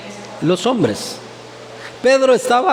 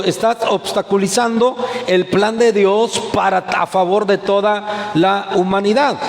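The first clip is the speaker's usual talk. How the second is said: preacher voicing Jesus's stern rebuke; strong rebuke. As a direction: drive Satan away with force. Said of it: "le tiene que hablar fuerte".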